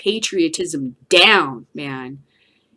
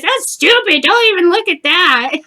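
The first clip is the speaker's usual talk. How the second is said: high, loud mock yelling of an old lady; mother-in-law yelling at the family to watch Oxnard's show; imitating a yell; 10 semitones higher, 8 dB louder than usual. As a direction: belt it out like a pushy mother-in-law. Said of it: "She just kept yelling at us".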